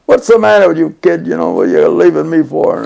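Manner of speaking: retold yelling. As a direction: imitate a big man yelling in your face. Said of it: "he's yelling at me out in the street".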